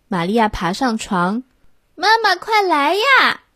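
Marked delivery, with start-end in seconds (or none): 2.0-3.4 calling out. A narrator's reading. Child calling for mother.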